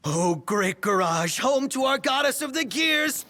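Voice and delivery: mock reverence. Mock worship of Cindy's garage.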